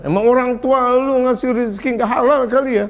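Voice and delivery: lightly acted scolding of a parent; mock berating. Preacher imitates teacher berating student's parents, mock scolding. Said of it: "Orang tuanya diomelin".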